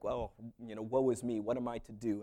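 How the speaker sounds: mock lament. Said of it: "expression of grief and sorrow".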